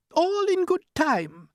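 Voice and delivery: high, slow and unhurried; glowworm voice. Acted. Glowworm stalls the centipede, slow and lofty. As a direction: take your sweet time.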